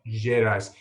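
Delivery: JEDIS repeated with a sounded last S; "Jedis" ending in an audible S; final S pronounced. Shown as a demonstration. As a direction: echo "Jedis", keeping the S at the end. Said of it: "Is the S pronounced in that?".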